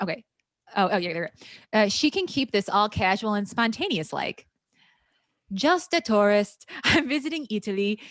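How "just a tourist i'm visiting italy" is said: put-on Italian accent. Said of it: "She's doing an accent too?".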